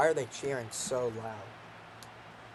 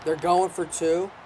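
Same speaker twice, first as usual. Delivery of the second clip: outraged; 3 semitones higher, 4 dB louder than usual. Real, not acted. Outraged at opponents' choice.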